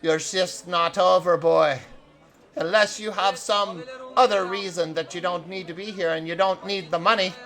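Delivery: stern boss. Acted. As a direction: lay down the law without really yelling. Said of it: "She yells and she says".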